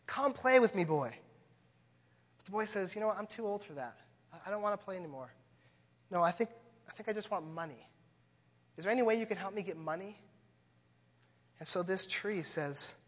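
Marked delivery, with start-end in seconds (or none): 0.0-1.2 high, eager calling out, drawn out; tree eagerly calling the boy to play; excited tree. Acted. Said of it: "the tree is so excited and says". 2.9-10.2 put-on bored boy. Selfish boy voiced in story.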